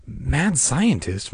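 slow, pondering words; drawn-out musing, weight on "Mad"; inner thought. A narrator's reading. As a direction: turn MAD SCIENTIST over slowly in your mind. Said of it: "Margaret thought".

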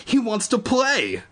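high, slow dread; horrified, drawn-out realisation. Acted. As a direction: realise the danger slowly. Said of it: "Evan thought in horror".

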